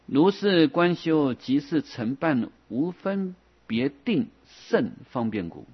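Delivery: slow, drawn-out recitation of a classical text; measured sutra-reading voice; scripture reading. Acted. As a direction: intone each phrase deliberately. Reads out scripture.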